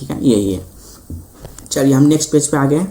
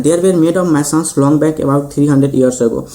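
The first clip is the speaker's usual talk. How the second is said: slow textbook reading; much slower than usual. Shown as a demonstration. Reads the textbook English aloud.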